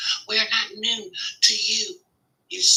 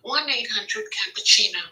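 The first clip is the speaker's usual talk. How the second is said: hammed-up law-firm commercial read; lightly voiced injury-lawyer ad; mock TV lawyer ad. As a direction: sell it like a late-night ad.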